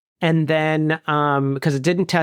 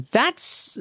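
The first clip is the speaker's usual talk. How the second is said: rich man voice; 13 semitones higher than usual. Retold or imitated. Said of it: "my friend Janelle was like".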